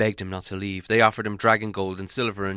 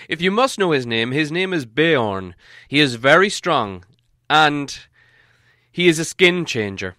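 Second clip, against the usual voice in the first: put-on raised, grand old wizard voice; Gandalf voice; 4 semitones higher, 7 dB louder than usual. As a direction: speak as the wise wizard, higher and fuller. Wizard names Beorn.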